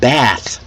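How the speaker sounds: "Bath" with the A of "cat"; American short A. Shown as a demonstration. Teacher repeats the American example, short A in "Bath". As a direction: drop your jaw for the short A in "Bath". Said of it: "with a short A sound".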